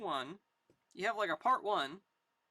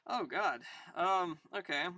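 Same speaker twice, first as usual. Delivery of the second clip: ordinary delivery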